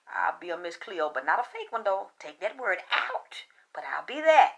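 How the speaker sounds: a hushed, cocky comeback; defiant whisper. Retold or imitated. Retelling her comeback to a caller, whispered. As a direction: whisper it with attitude, under the breath.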